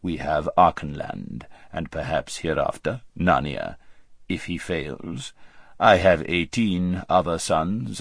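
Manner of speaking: lightly voiced weighty monarch; low, measured pronouncements from the throne; ponderous, lordly Tisroc. Tisroc dismissing his vizier for bed, ponderous.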